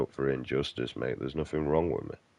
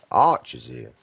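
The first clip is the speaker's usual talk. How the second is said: exasperated shout; 9 semitones higher, 6 dB louder, slower than usual. Real, not acted. Gaming frustration.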